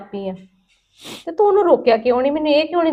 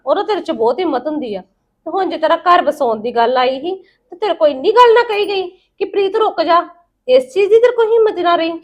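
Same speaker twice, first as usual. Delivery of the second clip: angry reproach; 5 semitones higher, 3 dB louder than usual. Acted. Aunt confronting him angrily.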